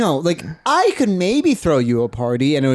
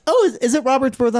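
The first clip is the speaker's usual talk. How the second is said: quoting mom; 9 semitones higher, faster than usual. Retold or imitated. Mom quoted, high pitch.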